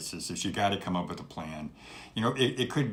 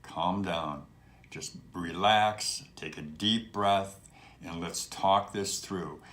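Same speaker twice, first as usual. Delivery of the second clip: calm, lowered voice; 3 semitones lower, slower than usual. Shown as a demonstration. Host shows how he calms panicked callers, slow and soothing. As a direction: talk them down slowly and gently. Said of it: "I take my voice down a couple notches".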